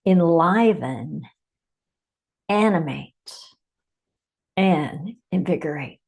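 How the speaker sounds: measured meditation delivery with long pauses; unhurried meditation leader, phrase by phrase; guided meditation. Acted. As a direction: guide listeners inward, leaving space after each phrase.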